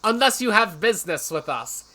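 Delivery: loud, high-pitched incredulous objection; mocking outrage. Real, not acted. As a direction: shout in disbelief at the absurd logic. Outraged mockery of contradictory sign.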